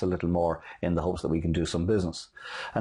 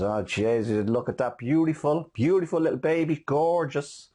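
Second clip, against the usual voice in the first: put-on gushing over a baby; 6 semitones higher than usual. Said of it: "she comes over and says".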